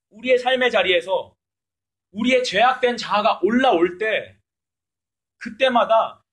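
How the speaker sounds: loud and slow, word by word; emphatic preaching. Real, not acted. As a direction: press the point on the congregation.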